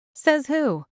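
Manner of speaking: playful challenge. A narrator's reading. Claire challenging Liam's rule, high and defiant. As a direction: toss it back at him.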